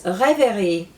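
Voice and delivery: rêverie said slowly with French R, stress on the end; rêverie, careful French vowels; French pronunciation. Shown as a demonstration. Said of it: "is dreaming".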